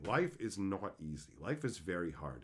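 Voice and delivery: hushed sincere admission; quiet and heavy. Real, not acted. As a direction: drop low and soft, heavy-hearted. Sober reflection on hardship.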